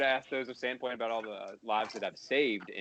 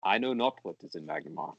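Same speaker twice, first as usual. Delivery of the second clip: put-on Russian accent. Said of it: "in the Russian accent".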